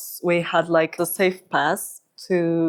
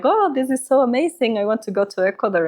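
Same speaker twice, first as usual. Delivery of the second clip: retold excitement; 6 semitones higher, faster than usual. Retold excited reaction of dance pupils.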